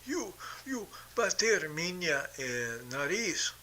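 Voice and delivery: whispered, slowed imitation of a complaint; mock him in a breathy whine; mock whimper. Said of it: "he did it, like".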